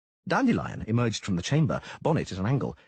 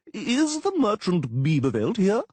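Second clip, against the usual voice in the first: slow, high, loud crowing; pompous crowing call; crowing official; 11 semitones higher, 5 dB louder, slower than usual. A narrator's reading.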